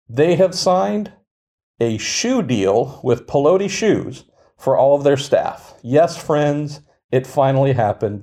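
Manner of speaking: milk the trivial news like a blockbuster; mock grand announcement. Cohost hyping a staff shoe deal with mock grandeur.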